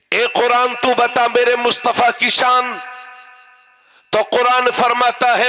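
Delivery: declaimed sermon in short phrases with long pauses; ringing, measured pulpit delivery; preaching. Acted. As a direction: preach it out line by line, holding the pitch. Preaches, addressing the Quran aloud.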